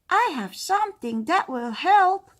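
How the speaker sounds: high, loud witch offering a cure; helpful witch. Acted.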